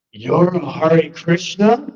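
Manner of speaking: slow, stunned question; drawn-out disbelief; astonished realization. Retold or imitated. Realizing friend's identity.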